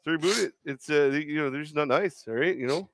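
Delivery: mock-polite Canadian coach, sorry about everything; Canadian impression. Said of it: "I did the Canadian accent with the boot".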